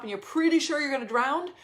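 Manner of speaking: ordinary talk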